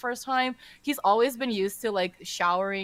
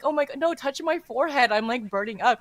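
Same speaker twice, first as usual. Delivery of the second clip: a touch of overacted suffering; milk the fever a little, half-joking; hammed-up sick act; 2 semitones higher than usual. Disciple playing sick to his teacher, hammed-up whine. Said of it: "really, like, hamming it up".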